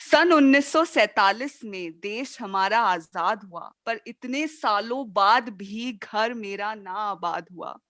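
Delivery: poem recitation. Acted. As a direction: declaim each verse, then let the refrain fall away. Recites own poem on freedom.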